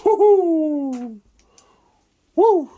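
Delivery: high, whooping celebration; excited cheer. Real, not acted. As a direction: cheer the lucky roll. Celebrating a good defense roll.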